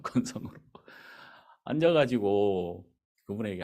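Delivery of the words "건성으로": whispered echo. Shown as a demonstration.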